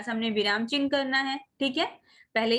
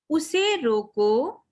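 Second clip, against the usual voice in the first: उसे रोको drawn out very slowly; slow teacher's demo, रोको held before a break; pause after रोको; 3 dB louder, much slower than usual. Shown as a demonstration. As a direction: stretch उसे रोको, then stop. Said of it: "फिर हमें थोड़ा सा रुकना है".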